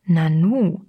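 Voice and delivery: mildly surprised exclamation; astonished. A narrator's reading. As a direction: voice a touch of amazement. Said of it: "staunte er". (leicht erstaunt)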